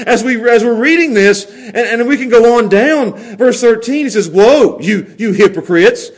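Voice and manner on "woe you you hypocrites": harsh, strong voice. Retold or imitated. Preacher reads Jesus's woes to hypocrites, harsh and condemning. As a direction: denounce them, hitting the first word hard. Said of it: "the harsh voice, the, the strong voice".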